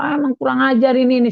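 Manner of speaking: high, quick mock scolding; retold cursing. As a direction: imitate someone grumbling insults after her. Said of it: "dia maki-maki saya".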